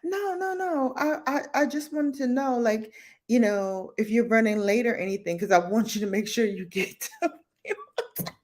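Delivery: high flustered backpedaling, lightly voiced; flustered coworker. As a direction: stammer excuses like a caught coworker. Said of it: "She was like".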